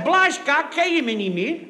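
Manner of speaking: hearty call. Acted. Colonel hails an old friend.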